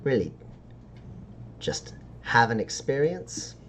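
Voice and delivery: halting sales pitch with long pauses; sly dealer's pitch. Acted. Dealer pricing rare stardust for a customer, lightly voiced sly pitch. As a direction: draw out the pitch before naming the price.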